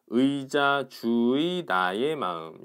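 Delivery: 의자, 주의, 나의 마음 read out word by word; careful reading aloud. Shown as a demonstration. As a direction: sound out 의자, 주의, 나의 마음 clearly. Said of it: "다르게 발음해 보자".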